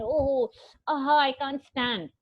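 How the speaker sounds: slow pretend groan of pain; feigned injury. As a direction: act too hurt to stand. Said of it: "He's trying to pretend".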